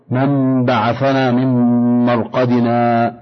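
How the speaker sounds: brief breathless stop after من بعثنا before مرقدنا, recited slowly; سكتة قصيرة بلا تنفس قبل مرقدنا; saqt pause. Shown as a demonstration. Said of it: "السكت هو قطع الصوت زمنا يسيرا من غير تنفس".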